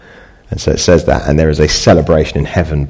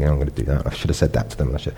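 brooding mutter; 5 semitones lower, 8 dB quieter, faster than usual. Retold or imitated. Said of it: "you might sit there".

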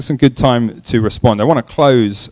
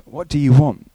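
gentler, less forceful question; gentlest version; 3 semitones higher than usual. Shown as a demonstration. Preacher tries the gentlest reading of Jesus's question. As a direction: ask it gently, still a little abrupt. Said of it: "the gentlest".

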